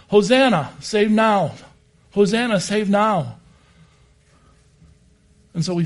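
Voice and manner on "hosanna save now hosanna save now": loud, ringing call of praise; loud cry. Retold or imitated. Temple worshippers circling the altar, crying out loud. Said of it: "and they all cried".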